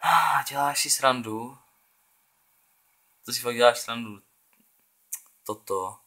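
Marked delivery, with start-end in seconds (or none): 0.0-1.6 disbelief. Real, not acted. After missed sure goal.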